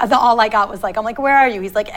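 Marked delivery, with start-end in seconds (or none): 1.2-1.6 louder and higher, calling out; half-yelled worried question; urgent call. Retold or imitated. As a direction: shout the question down a bad phone line. Panicked phone call to father.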